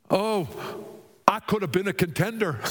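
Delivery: high-pitched, quick movie-boxer lament; Rocky Balboa. Acted. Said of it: "said Rocky Balboa".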